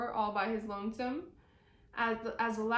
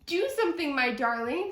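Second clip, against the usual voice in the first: pleading wife; 3 semitones higher, 3 dB louder, faster than usual. Acted. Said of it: "said Missus Moose as she scratched".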